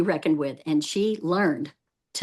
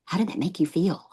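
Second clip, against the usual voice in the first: caring response; 6 dB quieter than usual. Shown as a demonstration. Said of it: "be ready at that point in time to say".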